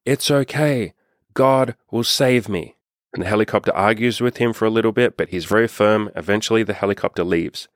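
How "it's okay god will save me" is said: higher, slow mock yell back. Man on the roof refusing the helicopter, higher slow mock yell. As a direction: call up stubbornly to the helicopter, drawn out. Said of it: "and he yells".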